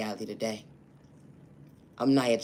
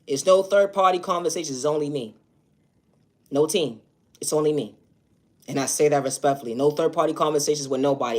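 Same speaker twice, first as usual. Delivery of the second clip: loud and higher, stating it flatly; firm raised voice; 4 semitones higher, 6 dB louder than usual. Real, not acted. Vlogger warning viewers about impersonators, loud and firm. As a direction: lay down the law to the viewers. Stresses she works alone.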